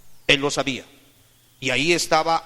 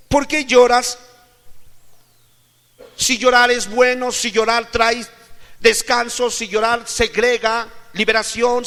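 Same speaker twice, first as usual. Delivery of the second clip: loud, high, insistent pulpit questioning; full-force preaching; 7 semitones higher, 9 dB louder than usual. Real, not acted. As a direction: hammer each question at the congregation. (predicación enérgica a voz en cuello)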